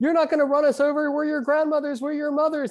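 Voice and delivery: put-on yelling, pitched way up. Retelling grandmothers standing before tanks facing commanders; retelling grandmothers yelling. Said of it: "And just yelling at the tank commanders".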